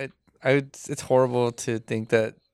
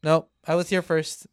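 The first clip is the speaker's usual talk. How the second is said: imitating stubborn woman; 5 semitones higher than usual. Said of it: "stands right in front of the spot and goes".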